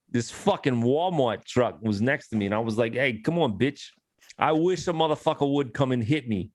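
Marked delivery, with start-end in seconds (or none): 2.9-6.5 lightly put-on New York accent; a hint of a brash New Yorker. To his friends, a mild New York accent as a driver beside a truck. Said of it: "That New York accent slays me every time".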